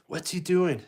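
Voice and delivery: high puzzled dad voice. Acted. Darth wondering at Luke, high puzzled voice. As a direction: ask like a baffled father. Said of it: "and Darth goes".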